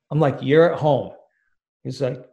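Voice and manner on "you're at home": incredulous. Retold or imitated. Incredulous retold phone call.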